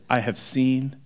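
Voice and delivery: heartfelt devotion; sincere. Shown as a demonstration. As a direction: say it like a grateful friend who has seen it all. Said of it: "The context is this".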